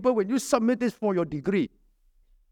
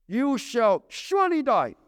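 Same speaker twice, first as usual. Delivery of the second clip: "surely" leaned on and drawn out slowly; emphasis on surely; 5 semitones higher, slower than usual. Shown as a demonstration. Quoting God's warning to Adam, "surely" weighted. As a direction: press hard on "surely", slowly. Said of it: "He now used the same emphasis that God used".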